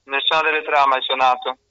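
ordinary talk, nothing marked

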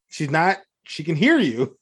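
ordinary talk, nothing marked

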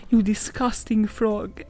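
slow, deliberate storybook line; storybook reading. Acted. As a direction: read out the princess's line slowly. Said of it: "she says".

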